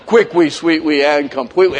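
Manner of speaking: lightly imitated small child's pronunciation; a hint of toddler speech; little kid talk. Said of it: "when my kids were real little, they said".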